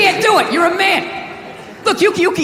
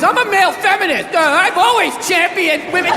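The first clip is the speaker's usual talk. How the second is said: mocked male feminist; 4 semitones higher than usual.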